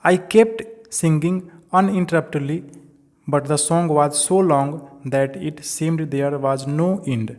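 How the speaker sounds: slow, deliberate reading aloud to the class; slow textbook reading. Acted. Teacher reading the chapter line to students, slow and deliberate. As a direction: read each English word out slowly for students.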